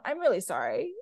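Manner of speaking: drowsy, sleepy apology; half asleep. Real, not acted. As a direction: talk like you're nodding off. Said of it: "I'm half asleep. I'm a little bit out of it".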